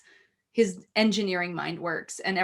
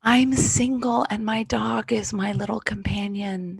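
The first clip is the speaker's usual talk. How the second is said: whispered confession. Real, not acted. Confessing mock-secret.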